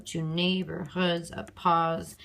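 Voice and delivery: "to neighborhoods of pause" in iambs, ending on a stressed PAUSE. Shown as a demonstration. Teacher repeating the scanned line, stress on pause. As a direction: beats on NEIGH, HOODS and PAUSE, to and of light. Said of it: "it's also stressed".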